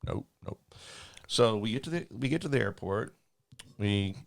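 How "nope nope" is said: unvoiced whispered nope. Pilot silently refusing his attendant, whispered. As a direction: breathe the nopes without voice.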